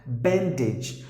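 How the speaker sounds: BANDAGE as BAN-dij; short i at the end of BANDAGE; short sound. Shown as a demonstration. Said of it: "short sound".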